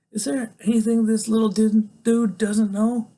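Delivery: high-pitched astonished question; amazed. A narrator's reading. Narrator's amazed thought.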